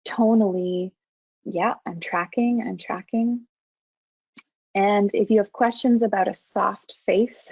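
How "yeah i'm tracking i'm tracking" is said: tracking tone. Shown as a demonstration. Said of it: "you're saying tonally".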